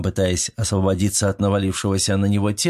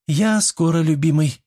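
cooing; 6 semitones higher than usual. A narrator's reading. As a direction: coo it sweetly, a touch higher. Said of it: "проворковала она". (Мила воркует любимому: нежно и выше)

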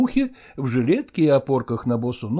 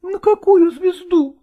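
mother =127; 14 semitones higher, 4 dB louder than usual. Acted. Mother asks.

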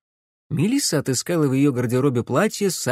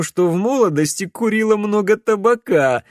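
higher, louder teasing suggestion, barely holding in a laugh; choking back laughter; 9 semitones higher, 5 dB louder than usual. A narrator's reading. Camilla suggesting Alex's excuse for his voice, stifling laughter. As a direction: tease him, trying not to laugh. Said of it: "давясь от смеха".

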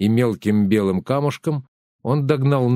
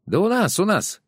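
much higher, indignant shout; angry outcry; 10 semitones higher than usual. A narrator's reading. Woman in cap angrily cries out at Pletnev, much higher. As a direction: snap back in outrage. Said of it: "сердито выкрикнула бейсболка с косынкой".

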